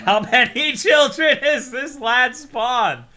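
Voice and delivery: loud laughing question; laughing disbelief. Real, not acted.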